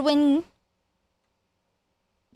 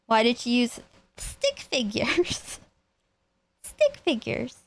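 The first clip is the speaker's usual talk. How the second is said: whispered aside; 3 dB quieter than usual. Real, not acted. Whispered aside about the drawings.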